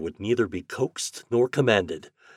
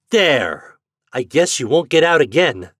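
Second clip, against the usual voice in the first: loud, raised-pitch satisfaction; triumphant; 7 semitones higher, 9 dB louder than usual. A narrator's reading. Boy to turkey locked in the crate, triumphant. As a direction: crow over the captured bird. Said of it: "cried Homer triumphantly".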